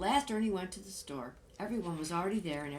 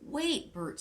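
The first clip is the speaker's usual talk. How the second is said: high, loud plea to stop; anxious shout to Bert; urgent call; 9 semitones higher, 4 dB louder than usual. Acted. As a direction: call him back before he goes. Ernie stopping Bert leaving.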